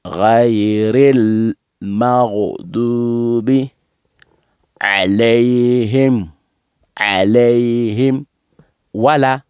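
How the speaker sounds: slow Quranic recitation with long sustained vowels; drawn-out, level tones to close the drill; recitation demo. Shown as a demonstration. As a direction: recite phrase by phrase, pausing between them. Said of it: "donc, on dit".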